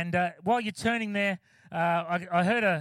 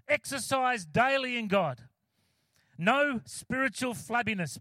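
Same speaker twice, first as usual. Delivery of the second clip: slow, measured scripture reading. Acted. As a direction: read the verse slowly, weighing each line. Reads scripture aloud.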